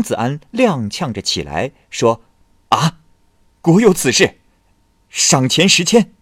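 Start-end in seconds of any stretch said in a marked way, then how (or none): 2.7-6.1 tipsy delight. Acted. Drunk scholar hears he passed.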